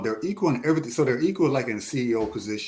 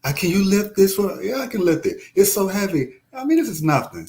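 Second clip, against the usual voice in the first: playful higher-pitched mimicry; mocking voice; 11 semitones higher, 5 dB louder than usual. Acting out a lifting exchange.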